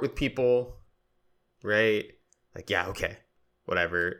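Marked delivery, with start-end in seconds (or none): 2.7-4.2 short and dismissive. Retold or imitated. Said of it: "my tone will change".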